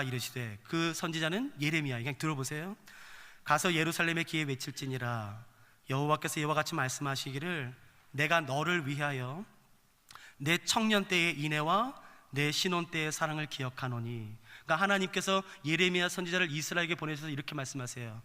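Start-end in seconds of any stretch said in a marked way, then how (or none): 3.4-14.4 lower, measured Bible reading; scripture reading. Acted. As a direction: read the verse aloud solemnly in a lowered pitch. Reads scripture aloud.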